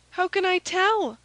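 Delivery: distressed maid Kitty. A narrator's reading. Maid answering her questioner, distressed and high. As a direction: plead in a high maid's voice.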